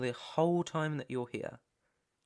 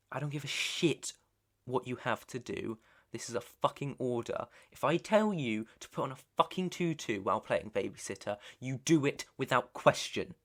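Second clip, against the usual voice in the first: forceful dressing-down, building louder; angry order; 4 dB louder than usual. Acted. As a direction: lay down the law to an underling. Boss berates underling with an order.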